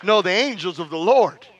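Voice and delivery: emphatic testimony, hammering each contrast; rousing preacher's declaration; preaching. Real, not acted. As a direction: declare it firmly to the congregation. Preaches at force again.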